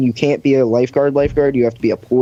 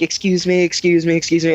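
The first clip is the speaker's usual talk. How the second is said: lightly voiced supervisor, pitched up; higher, repeated polite plea; imitated stuck supervisor; 5 semitones higher than usual. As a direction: imitate someone pushing through a crowd. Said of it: "she's like".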